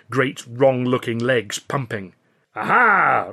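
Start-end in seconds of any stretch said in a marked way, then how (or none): 2.6-3.3 high, loud "Aha!"; triumphant cry. A narrator's reading. Billy as the ostrich charges, excited cry. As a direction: crow with delight. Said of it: "Ritchie cried".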